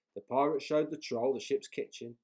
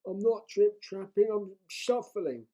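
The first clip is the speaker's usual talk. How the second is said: small voice; 11 semitones higher, 9 dB louder than usual. A narrator's reading. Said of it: "said the troll in a small voice".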